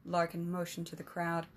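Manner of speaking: measured storybook narration; story narration. A narrator's reading. Narrator reading a fantasy tale to listeners, steady storytelling. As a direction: read it like an audiobook chapter.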